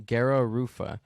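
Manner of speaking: "garra rufa" with Spanish vowels, "garra" as kerro; Chicano accent. Shown as a demonstration. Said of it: "I'm gonna say it in my, uh, Chicano accent".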